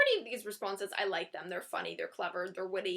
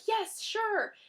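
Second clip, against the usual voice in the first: overeager rapid questions; 3 semitones higher than usual. Pretend. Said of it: "don't just be like".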